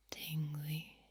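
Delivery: "tingly" low, level and drawn out; low inflection. Shown as a demonstration. Playing with tone for listeners, "tingly" low and lengthened. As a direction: drop "tingly" low and stretch it without a lift. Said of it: "Mixing up my tone and inflection".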